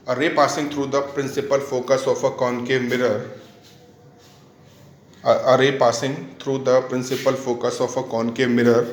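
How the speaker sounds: slow, measured teacher's dictation. Real, not acted. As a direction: read out slowly for note-taking. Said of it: "मैं धीरे धीरे बोलता हूँ".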